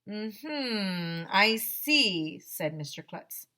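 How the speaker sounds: put-on lively read-aloud to children; children's book read-aloud voice; story narration. A narrator's reading. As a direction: read the story to a class, playing the characters.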